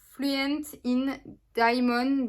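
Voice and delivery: product name said slowly in English accent. Real, not acted. Naming the eyeshadow to viewers in English accent. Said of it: "Désolée pour mon accent anglais".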